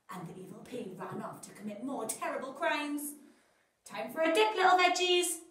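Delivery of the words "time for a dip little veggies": higher, louder gleeful taunt; menacing cartoon villain teasing.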